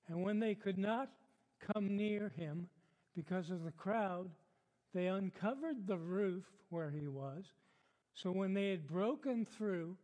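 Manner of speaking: measured Bible reading in phrases; deliberate pulpit reading; scripture reading. Acted. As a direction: read the passage aloud to a congregation, pausing between phrases. Reads the passage aloud.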